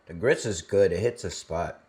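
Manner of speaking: talking between bites of food; mukbang eating. Real, not acted. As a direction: speak with a mouth full of grits. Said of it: "going to actually eat our grits".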